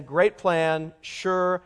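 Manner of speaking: sarcastic. Retold or imitated. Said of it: "she laughs in this moment of sarcasm".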